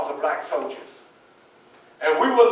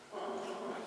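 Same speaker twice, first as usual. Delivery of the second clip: put-on kids' reaction; 18 dB quieter than usual. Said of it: "they'd be like".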